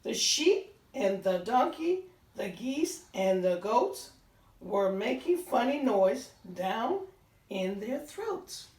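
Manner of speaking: gentle storybook read-aloud; reading to children. A narrator's reading. Teacher reading a farm story to children, gentle read-aloud. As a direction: read it like a bedtime picture book. Reads picture book aloud.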